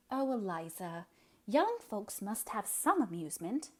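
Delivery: a gentle protest, drawing out the oh; mild protest. Acted. Catherine mildly protesting to her stern sister Eliza. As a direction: soften her, plead lightly. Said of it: "protested Catherine".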